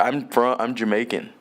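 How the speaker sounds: attempted Jamaican accent that comes out Irish; bad Jamaican accent. Shown as a demonstration. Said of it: "my fucking Jamaican accent sounds Irish".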